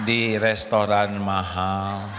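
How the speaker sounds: lightly voiced stiff recorded confession; husband's video apology. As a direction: recite it like a contrite husband on camera. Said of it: "bikin video rekaman".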